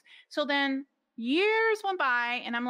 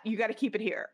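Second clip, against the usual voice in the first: laughing; faster than usual. Retold or imitated. Nervously refusing the stones, laughing.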